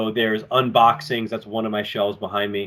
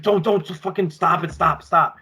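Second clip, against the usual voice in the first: imitated frantic pleading; 7 semitones higher than usual. Danny panics at waiter prank.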